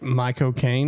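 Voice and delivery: "Michael Caine" slowed, sounding like "my-co-caine"; weird pronunciation. Shown as a demonstration. Co-host checking the lady's odd wording, "Michael Caine" as "my-co-caine". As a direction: drop the L in "Michael Caine", questioning lift at the end. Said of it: "she just said it too weird".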